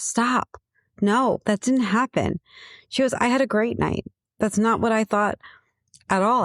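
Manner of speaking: mildly acted protest, pitch lifted; retold reassuring denial. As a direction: imitate a friend's emphatic reassurance. Friend retold, firmly denying and reassuring.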